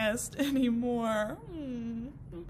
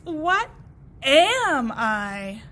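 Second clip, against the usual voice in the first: loud puzzled cry of a worried blade of grass; 11 dB louder, much slower than usual. Acted. Walt asking the mirror, loud and worried. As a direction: call out, lost and unsure.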